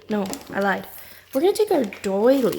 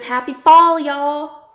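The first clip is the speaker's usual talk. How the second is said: cheerful sing-song; 6 semitones higher, 10 dB louder, much slower than usual. Acted. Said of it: "It says".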